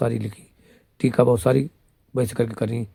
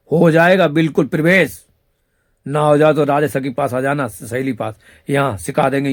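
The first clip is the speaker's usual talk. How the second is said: excited promising; 3 semitones higher, 5 dB louder than usual. Real, not acted. Promising followers instant entry at his seat, loud excited hawking. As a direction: hype it up like a hawker.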